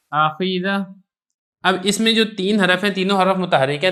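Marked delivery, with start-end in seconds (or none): 0.1-0.8 آخیدہ with every vowel fully sounded; آخیدہ, all three letters voweled; clear vowels. Shown as a demonstration. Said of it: "تینوں کو آپ خوب واضح اور ظاہر کر کے پڑھیں".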